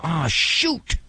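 a mildly fretting listener talking to himself; lightly voiced listener, annoyed and in a hurry; frustrated listener. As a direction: grumble lightly as a rushed listener in a parking lot. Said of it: "And you go".

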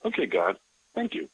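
high, emotional cry of thanks to God; overwhelmed thanks. Retold or imitated. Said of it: "where you just like".

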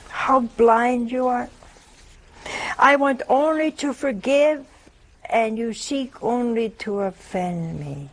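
sorrowful words of Jesus. Acted. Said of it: "he said".

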